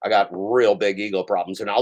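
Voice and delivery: lightly voiced boastful Pedro; a hint of a bragging, hammed-up Pedro; mocking Pedro. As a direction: sneer as a vain show-off. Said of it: "now I'm Pedro".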